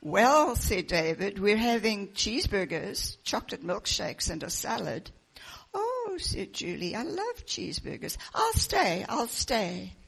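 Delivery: put-on reading a picture book aloud to children; lively storybook narration with the characters' lines voiced; story reading. Pastor reading a children's book to the congregation, storytelling voice.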